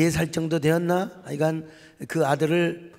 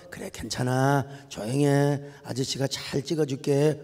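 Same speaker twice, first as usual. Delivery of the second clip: put-on softer, lower voice, coaxing a frightened toddler; gentle soothing; 5 semitones lower, 4 dB quieter than usual. X-ray technician should have calmed the child, soft and soothing. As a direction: hush him kindly like a calm nurse.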